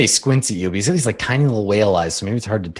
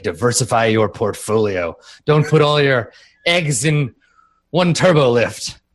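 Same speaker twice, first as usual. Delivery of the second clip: lightly voiced bigwig spelling out his wisdom; pompous minister. Minister pulls robot close to advise it, pompous. Minister gives business advice.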